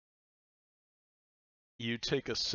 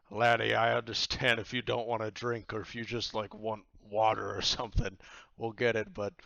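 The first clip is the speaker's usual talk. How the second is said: a touch louder, lightly voiced captain; understanding pirate captain; 6 dB louder than usual. Pirate captain coaxes the player to drink, a touch louder. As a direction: coax him to drink, gently firm. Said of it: "And he says".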